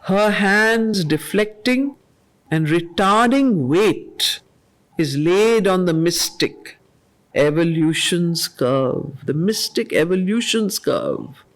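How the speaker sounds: slow, measured reading of verse; poem recitation. Acted. Teacher reading Savitri lines to the class, measured and solemn. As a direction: let each line land with weight.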